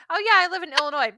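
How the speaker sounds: put-on a quick failed try at an Illinois accent; hammed-up Illinois accent that misses; mock Illinois accent. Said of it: "I can't do the accent".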